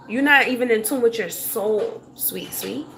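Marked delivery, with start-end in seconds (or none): 2.2-2.9 hushed, breathy sing-song sweet sweet; a soft mock of the commenter's sweet, sweet. Mocking a viewer's pet name, hushed and sing-song. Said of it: "I don't know if that's your nickname".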